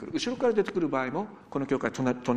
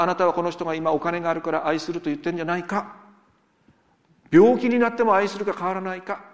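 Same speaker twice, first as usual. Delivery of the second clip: officiant's vow question; 2 semitones higher, 8 dB louder than usual. Retold or imitated. Pastor re-enacts the wedding vow question.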